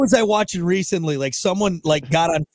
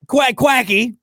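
higher playful quacking; duck voice; 6 semitones higher, 3 dB louder, slower than usual. Pretend. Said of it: "do some quacking".

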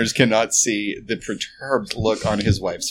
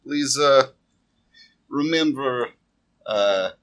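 shopkeeper. Acted.

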